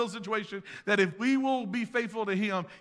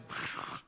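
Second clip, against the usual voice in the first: breathy whoosh of crashing rock; mouthed rumble of a rockslide; imitated blast; 11 dB quieter than usual. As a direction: make a short rushing crash noise. Imitating wind blast and falling rocks.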